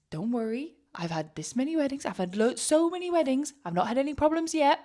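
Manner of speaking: high, confident mock Australian accent. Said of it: "She was Australian".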